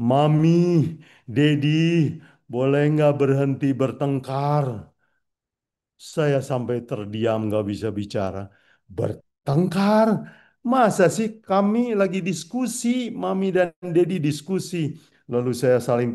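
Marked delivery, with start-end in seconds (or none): 0.1-4.7 put-on higher, louder pleading little boy; crying child's plea. Little son pleading with parents to stop, tearful. 9.0-14.8 surprised denial. Retold or imitated. Father to crying son denying any fight, incredulous.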